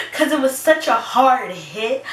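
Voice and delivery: laughing through the line; high laughter. Real, not acted. Laughing while recalling the hard hit of the crash.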